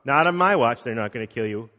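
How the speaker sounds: mock defiant. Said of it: "goes right nose to nose with Jesus and says".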